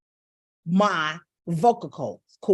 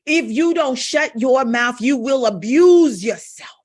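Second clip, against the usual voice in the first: emphatic; 3 semitones higher, 6 dB louder than usual. Real, not acted. Urgent warning about voice.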